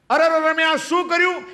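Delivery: high, pained cry of regret; anguished remorse. Retold or imitated. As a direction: wail at your own wrongdoing. Voicing a remorseful sinner.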